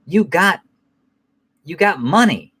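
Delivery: imitated father's lecture, climbing in pitch; serious father. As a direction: build to high, exasperated mock pleading. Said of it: "whenever he get fucking serious with them".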